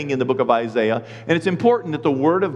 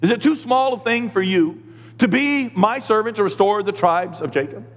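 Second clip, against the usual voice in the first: scripture as higher, challenging question; misread as rebuke; 5 semitones higher than usual. Shown as a demonstration. Pastor replays his wrong reading, challenging. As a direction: challenge the listener with mock disbelief. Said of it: "That's the way I was reading that".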